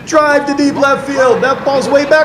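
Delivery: high, loud, squeaky baseball play-by-play; hammed-up old radio announcer call. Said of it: "The, the squeaky voice".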